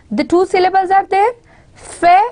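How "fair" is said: "Fair" isolated, high and firmly stressed; stressed syllable. Shown as a demonstration. Teacher showing which syllable of fatal is stressed, "Fair" punched high. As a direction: lift and punch "Fair" on its own. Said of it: "is a stressed one".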